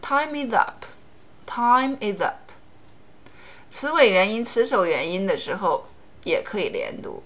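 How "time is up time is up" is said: time-is-up run together smoothly; linking demo; linked together. Shown as a demonstration. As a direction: blend time is up into one flow. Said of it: "这个时候就要连读".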